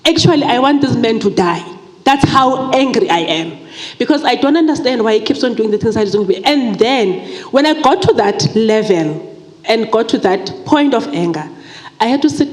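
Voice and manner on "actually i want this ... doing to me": mock angry prayer. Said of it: "I got so angry and I told God".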